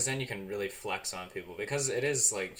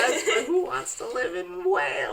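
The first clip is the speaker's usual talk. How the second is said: incredulous; 14 dB louder than usual. Real, not acted. Mocking Welsh plan.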